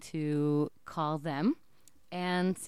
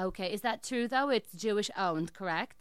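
put-on Jewish accent. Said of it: "I'm gonna be in an accent".

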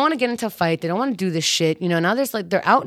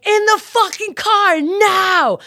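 high, slow, forceful command; exasperated high yell; urgent yell; 13 semitones higher, 6 dB louder, slower than usual. Retold or imitated. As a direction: bark it at her to get in now.

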